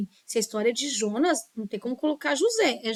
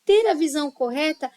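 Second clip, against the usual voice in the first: expressive read-aloud, louder and a little higher; reading with intonation; 4 semitones higher, 6 dB louder than usual. Shown as a demonstration. Teacher shows students how to read a story aloud, with intonation. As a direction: read it out with clear, lively intonation. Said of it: "sempre com a entonação".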